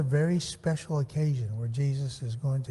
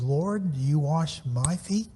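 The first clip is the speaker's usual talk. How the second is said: "Lord" lifted and stressed, then the question; slower than usual. Retold or imitated. Teacher quotes Peter questioning Jesus, stress on "Lord". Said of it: "I emphasize the word Lord".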